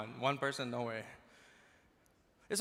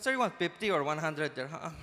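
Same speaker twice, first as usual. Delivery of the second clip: put-on Filipino accent. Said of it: "Filipinos are the nicest people".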